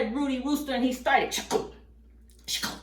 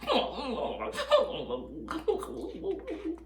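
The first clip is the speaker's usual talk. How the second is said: staged boo-hoo whimpering; badly faked crying; mock sad sobbing; 9 semitones higher than usual. Rooster left alone by his friends, mock sobbing. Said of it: "Rudy Rooster was sad".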